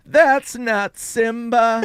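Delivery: put-on high, slow little-old-lady usher; confused old usher. Elderly usher watching chaos in the bathroom, confused and high-voiced. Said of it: "I did an impression of, um, the ushers".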